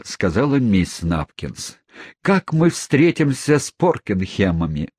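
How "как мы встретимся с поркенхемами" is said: lightly voiced dismayed cry pitched higher; alarmed question flung upward; exclaiming. Mother fretting about facing the neighbours, high exclamation. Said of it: "воскликнула миссис Напкинс".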